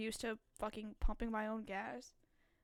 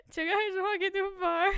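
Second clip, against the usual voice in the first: loud joke setup; 6 semitones higher, 10 dB louder than usual. Real, not acted. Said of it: "Alright, guys".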